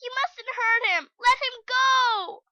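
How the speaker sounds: high, loud, slowed indignant command; indignant shout. A narrator's reading. Heidi shouting at Peter, high indignant girl voice. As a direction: order him to let go. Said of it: "shouted, full of indignation".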